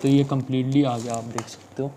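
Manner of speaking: muffled through helmet chin bar; speaking inside a helmet. Real, not acted. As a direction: voice slightly boxed in. Seen 0: Full-face helmet worn on head with chin bar over mouth throughout.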